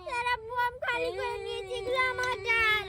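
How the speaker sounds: tearful whine about the dal; crying complaint. Pretend. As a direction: sob out the grievance. Child complains while crying.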